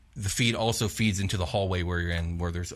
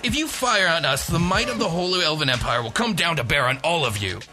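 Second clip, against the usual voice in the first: pissed off threat; 8 semitones higher, 3 dB louder than usual. Acted. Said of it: "He says".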